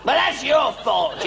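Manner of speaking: high, slow blaming snap; indignant retort. Acted. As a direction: turn the blame right back. Father blames son back.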